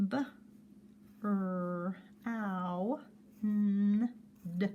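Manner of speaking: B, R, ow, n, d said slowly apart; sounding out words. Shown as a demonstration. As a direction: separate each sound of brown. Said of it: "Add five sounds".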